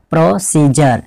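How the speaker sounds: प्रोसीजर with a "j" sound in the last syllable; correct pronunciation demo. Shown as a demonstration. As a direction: model प्रोसीजर clearly, ending in "jar". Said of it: "इसको क्या पढ़ेंगे". (प्रोसीजर के अंत में "जर" का उच्चारण)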